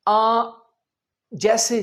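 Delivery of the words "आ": आ as a long open "aa"; long aa sound. Shown as a demonstration. Teacher isolating the vowel for learners, long open आ. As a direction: sound out आ clearly, as in father. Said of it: "आ की आवाज आ जाए".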